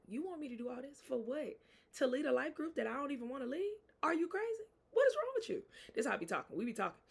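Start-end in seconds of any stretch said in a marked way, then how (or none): 0.1-5.6 rising indignation. Retold or imitated. Angry at God's demands, rising to a high outraged cry. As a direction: climb into outraged disbelief. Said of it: "how pissed I was".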